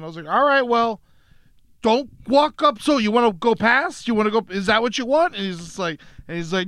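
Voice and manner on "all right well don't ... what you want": higher-pitched, challenging questions; mock confronting a stranger; retold confrontation. Man retelling how he challenged a follower, pointedly confrontational.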